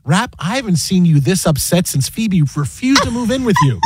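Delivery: understated retold deadpan. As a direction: deliver the comeback straight, without pushing. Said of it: "And I just deadpan".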